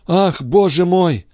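a slow, high cry of overwhelming joy; joyful exclamation. A narrator's reading. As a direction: throw it up to heaven. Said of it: "воскликнул Андре".

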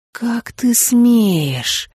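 very slow, drawn-out angry hiss; harsh and sharp. Acted. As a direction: hiss it like an enraged cat. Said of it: "Он был громким и резким". (резко, как шипящая кошка)

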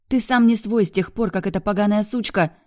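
high, loud spiteful jab; spiteful outburst. A narrator's reading. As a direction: spit it out before she's cut off. Bianca spiteful, cut off. (злобно, высоко и громко)

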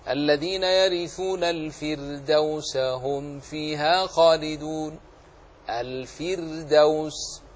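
slow recitation, light ر in "الفردوس". Shown as a demonstration. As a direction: chant it drawn out, keeping the ر of "الفردوس" thin. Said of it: "ترقق، مثل قول الله تعالى". (ترتيل مع ترقيق الراء في "الفردوس")

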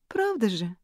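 выше и громче, восклицание; живо, с азартом; восклицая. A narrator's reading. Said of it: "воскликнула подруга". (Элис восклицает, подначивая Нори)

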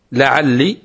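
لعلي with a long final i; careful pronunciation. Shown as a demonstration. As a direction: say لعلي clearly, ending on i. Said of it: "وينطقون بها أيضًا". (نطق لعلي بكسر اللام الأخيرة)

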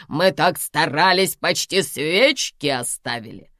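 put-on loud, high, slow old woman's tirade; yelling. A narrator's reading. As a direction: drag out every accusing word at full voice. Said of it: "продолжала кричать женщина". (громкий медленный крик, выше обычного)

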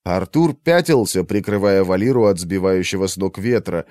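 ordinary delivery, nothing marked

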